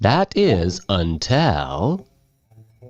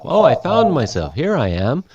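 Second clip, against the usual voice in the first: mock happy discovery; 6 semitones higher than usual. Teacher acts out literal misreading.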